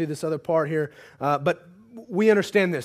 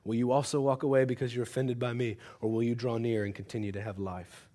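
quoting Jesus; 8 semitones lower, 9 dB quieter than usual. Retold or imitated. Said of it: "a powerful question that he asks the twelve".

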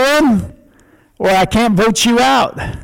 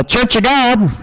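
nasal voice. Retold or imitated. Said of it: "he had this kind of nasal voice".

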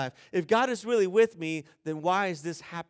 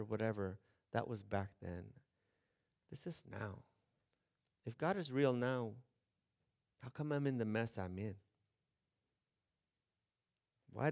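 much softer, lower sarcastic brush-off; scoffing dismissal; 6 semitones lower, 9 dB quieter than usual. Retold or imitated. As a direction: wave it away, unimpressed. Scoffing at the Bible.

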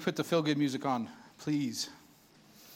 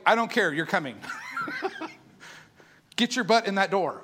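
laughing while insisting playfully; laughing insistence. Pretend. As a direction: tease them in with a laugh.

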